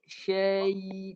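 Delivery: "Syai" held long and level. Shown as a demonstration. Teacher shows students the mid-tongue sound, held long. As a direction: glide into a sustained y on "Syai". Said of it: "Tengah lidah naik".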